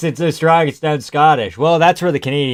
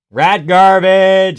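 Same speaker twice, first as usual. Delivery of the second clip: slow mock announcer; 4 semitones higher, 6 dB louder, much slower than usual. Mock nickname call.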